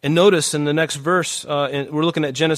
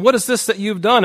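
God demanding; 8 semitones higher, 6 dB louder than usual. Acted. God confronts the woman.

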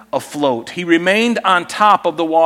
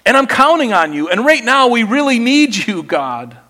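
a prayer rising to a cry for help; building plea; 2 semitones higher than usual. Pretend. Preacher voicing a believer's prayer to God, rising urgency. Pastor voices a desperate prayer.

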